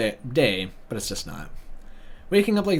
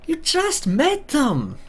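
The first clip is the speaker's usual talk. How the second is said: 1 mock incredulous high; much slower than usual. Real, not acted. Mocking aside to himself.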